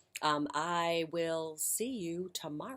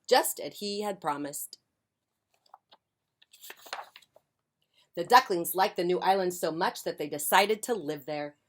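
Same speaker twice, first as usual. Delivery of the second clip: lively picture-book reading; expressive storytime voice; story narration; 2 semitones higher, 8 dB louder than usual. A narrator's reading. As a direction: read it aloud to young children. Reads picture book to children.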